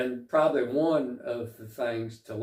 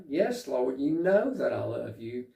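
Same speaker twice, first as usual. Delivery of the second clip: more emotional. Retold or imitated. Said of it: "it seems like it's more emotional".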